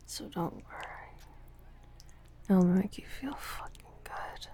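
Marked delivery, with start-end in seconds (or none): none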